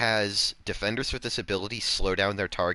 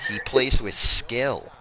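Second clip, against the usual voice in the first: sarcastic; 4 semitones higher, 4 dB louder, slower than usual. Real, not acted. Sarcastic jab at friend.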